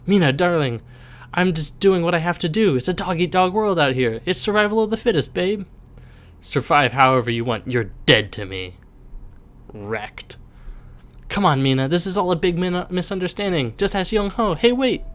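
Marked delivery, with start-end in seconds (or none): 0.1-5.7 sweet-talking. Acted. Bully sweet-talking girlfriend. 11.3-15.0 desperate begging. Acted. Bully begging girlfriend back.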